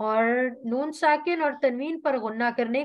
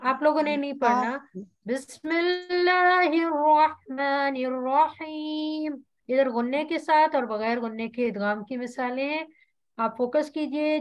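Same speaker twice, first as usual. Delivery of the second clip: Quran recitation. Acted. Teacher recites the surah herself. (धीमी तिलावत)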